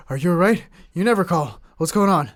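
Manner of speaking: imitating alarmed mom. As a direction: play a startled mother firing worried questions. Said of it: "Scared the crap out of her".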